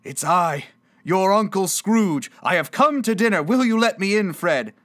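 high, loud, hopeful declaration; hearty announcement. Acted. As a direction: announce the arrival grandly and ask entry. Scrooge announces himself to his nephew.

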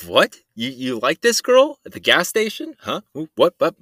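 mock excited dad. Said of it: "My dad's all excited".

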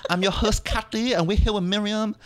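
high, put-on Asian accent, coy and vain; put-on Asian woman voice. Host introducing herself in put-on Asian accent. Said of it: "trying to apologize in my voice".

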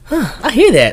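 put-on high girl voice. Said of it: "They was like".

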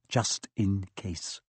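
slow, soft reading of a note; quiet note reading. A narrator's reading. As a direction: read the note softly.

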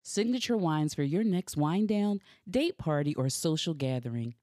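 slow, smooth sponsor read. Acted. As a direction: read it like a radio ad.

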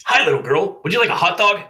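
high, loud, chirpy vendor voice; very cheerful vendor. A narrator's reading. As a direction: greet a customer with sing-out cheer. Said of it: "said in a cheerful voice".

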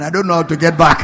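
half-laughing, voicing a friend's regret. Preacher retelling his friend's regret, laughing through it. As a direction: chuckle through the friend's lament.

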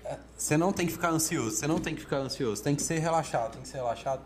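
repeating the nagging, a little fast; mock nagging advice. Teacher mocks people nagging anxious speakers to relax. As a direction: parrot the tired advice to calm down. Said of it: "é chato a gente ficar batendo".

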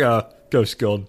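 slow, casual mock Korg line; Korg's deadpan. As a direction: drawl it out like Korg. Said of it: "He's like".

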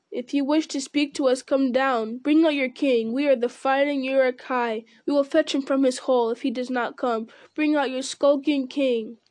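lightly voiced orc horde, taunting; a hint of a brutish orc, mocking the king; jeering orcs. Orcs taunting Aragorn to bring out his king, lightly voiced jeering. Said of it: "The orcs yelled and jeered".

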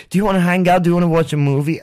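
high, bubbly imitation of an overeager roommate; gushing roommate. Roommate rushing up at two in the morning, high and gushing. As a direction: squeal it like a clingy friend at night.

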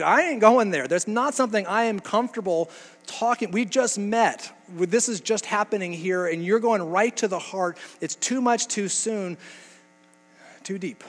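hammed-up woman deflecting. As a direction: playfully voice her backing away, too much too soon. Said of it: "she's just totally redirecting over to here to be like".

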